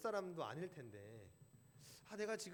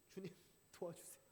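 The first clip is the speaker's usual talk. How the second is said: earnest prayer; 8 dB quieter than usual. Retold or imitated. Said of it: "간절히 기도했습니다".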